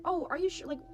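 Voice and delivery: high, hesitant "are you sure" politeness; surprised politeness. Retold or imitated. Retold surprised reply to offer.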